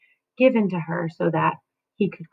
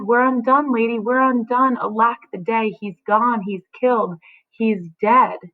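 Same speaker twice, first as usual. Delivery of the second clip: wailing nurse; 4 semitones higher than usual. Acted. Nurse wailing to Juliet, a hint of a raised lament. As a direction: lightly cry out the news of death. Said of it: "She's, she's screaming out".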